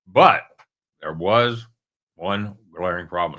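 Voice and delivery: talking around a caramel; candy in mouth, slightly muffled; mouth full. Real, not acted. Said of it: "I've got a caramel in my mouth".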